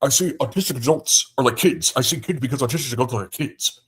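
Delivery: lightly put-on voice of an opponent; Jaron. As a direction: imitate him lightly, speeding up toward the end. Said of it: "do it in Jaron's voice".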